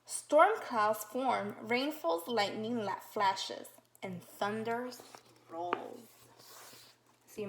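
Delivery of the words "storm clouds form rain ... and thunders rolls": slow, loud storm-page reading; dramatic read-aloud. Acted. Teacher reading storm page to children, dramatic slow voice. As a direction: build the storm for the kids.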